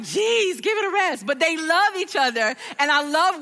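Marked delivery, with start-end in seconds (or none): 0.0-1.2 higher, playful exasperated sigh; mock exasperation. Mom teasing affectionate son and wife, mock exasperated. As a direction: tease the lovebirds. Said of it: "And I'm like".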